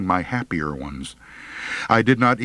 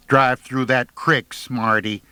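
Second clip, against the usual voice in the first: snapping, slowed; 4 semitones higher than usual. Acted. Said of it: "Pearlie snapped".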